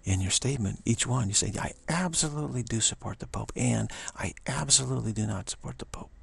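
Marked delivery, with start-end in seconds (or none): 1.6-3.5 "absolutely" lifted higher and stressed; unequivocal emphasis. Shown as a demonstration. Teacher demonstrating an unequivocal statement, emphatically. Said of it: "you're being completely unequivocal". 4.2-6.1 firm stress on "absolutely" and "not"; unequivocal emphasis. Shown as a demonstration. Teacher demonstrating the opposite statement, just as emphatically.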